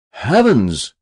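loud, swooping exclamation of wonder; amazed cry. A narrator's reading. Castwell on landing a third trout, amazed cry. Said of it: "cried Mister Castwell".

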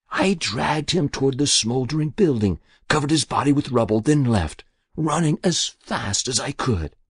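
put-on a guilty old woman pleading with the inspector; Muriel's voice. Muriel recounts the murder.

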